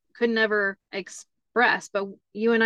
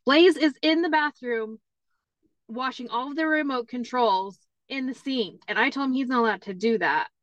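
put-on high, rushed tattling kid; alarmed tattling; 4 semitones higher than usual. Daughter reporting to dad, high and breathless. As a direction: tell on your brother in a rush.

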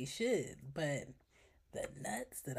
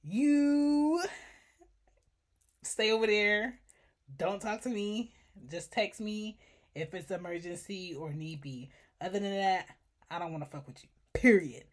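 dismissive; 5 dB louder than usual. Retold or imitated. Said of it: "for me to be like".

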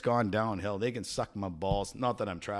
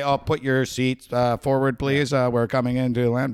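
flight announcement; 3 semitones higher, 9 dB louder than usual. Retold or imitated. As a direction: read it like cabin crew over the intercom. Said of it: "when they say".

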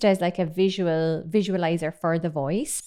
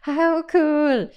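high, loud burst of enthusiasm; thrilled exclamation; delighted; 8 semitones higher, 5 dB louder than usual. Real, not acted. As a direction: marvel brightly at a cool result. Delighted at the visualised sweep.

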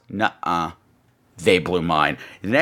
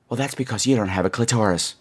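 deadpan church lady; 8 semitones lower, 3 dB quieter than usual. Retold or imitated. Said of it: "church lady looks in my face and goes".

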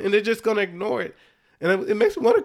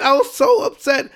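upset; 5 semitones higher, 3 dB louder than usual. Real, not acted. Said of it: "I'm losing my voice right now".

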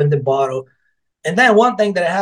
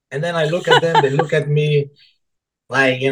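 words broken by real laughter; laughing through it. Real, not acted. Telling friends about the cork blunder, laughing.

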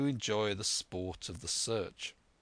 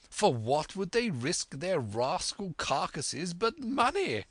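high, indignant rhetorical questions; excitable squire; 6 semitones higher than usual. Acted. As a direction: bluster away in a high, emphatic voice. Voices the squire exclaiming.

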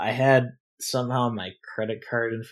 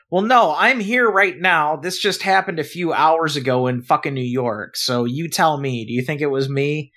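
higher, louder exasperated comeback; indignant retort; 4 semitones higher, 4 dB louder than usual. Retold or imitated. Arguing with bank staff, higher indignant retort. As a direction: throw it back at them, fed up.

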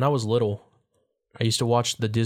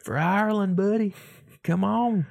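mock rallying cry; 10 semitones higher than usual. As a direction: urge the racer on in jest, pitched high. Playing at egging on street racers.

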